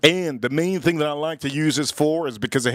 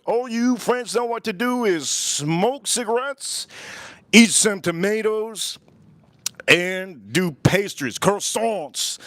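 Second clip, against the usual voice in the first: mock French; 5 semitones higher, slower than usual. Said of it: "mocking the French".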